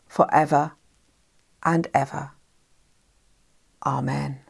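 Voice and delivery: measured, solemn prayer with spacious pauses; congregational prayer. Real, not acted. Minister leading the congregation in the Lord's Prayer, measured and reverent. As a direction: lead the prayer phrase by phrase, settling into a hushed Amen.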